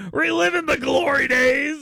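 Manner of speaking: laughing shout of mock pride. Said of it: "hanging out at the Confederate".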